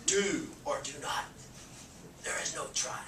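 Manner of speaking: lightly voiced Yoda, Texas twang creeping in. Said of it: "Yoda with a Texas twang".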